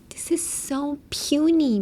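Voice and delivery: slow, sarcastic put-down. Shown as a demonstration. Mocking a tiny paycheck, slow sarcastic drawl. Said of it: "嫌味で使う時".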